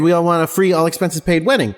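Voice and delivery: hammed-up squeal of greedy delight; mock fan excitement. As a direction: overeager fan imitating the prize. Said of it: "everybody freaks out".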